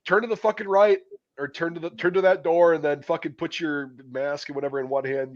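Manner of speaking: high, loud orders that ease off; drill sergeants barking orders. Retold or imitated. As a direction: bark it like a bored instructor. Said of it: "And they're like".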